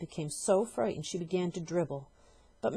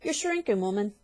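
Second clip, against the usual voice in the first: high, loud accusation; accusing husband; 3 semitones higher, 6 dB louder than usual. Acted. Husband frightening his wife, high and loud. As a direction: jab the words at her. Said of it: "said Mister Twit".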